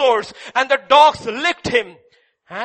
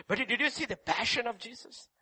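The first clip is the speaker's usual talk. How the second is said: softer repeat; 13 dB quieter than usual. Acted. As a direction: drop to a hushed echo of the question. Preacher repeats question, second softly.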